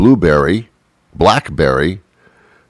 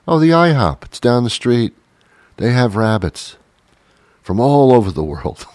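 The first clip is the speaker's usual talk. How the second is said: lightly higher, cheerful tip-giving voice; chirpy local; 5 semitones higher than usual. Pretend. Friend recommending the I hop for rabbit, lightly higher and chirpy. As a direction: point the way brightly.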